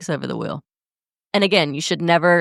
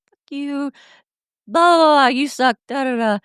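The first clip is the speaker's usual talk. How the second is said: higher mock rant that jumps loud on the blahs; mock angry outburst; 9 semitones higher, 3 dB louder than usual. Partner acting out a "don't leave me" blowup, mock raging. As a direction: imitate your own raging self, pitched well up. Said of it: "What I'm really saying is like".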